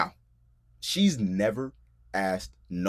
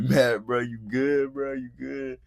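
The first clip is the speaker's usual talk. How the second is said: teasing laugh; 5 semitones higher, slower than usual. Retold or imitated. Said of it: "dying laughing".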